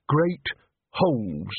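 put-on grudging, deflated old man; sour. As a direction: say it sulkily, spoiled. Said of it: "he said sourly".

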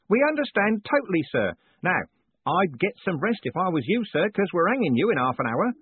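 a beaming prison warden teasing his prisoner; jovial warden. A narrator's reading. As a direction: play the cheerful warden gloating kindly. Warden announces hanging.

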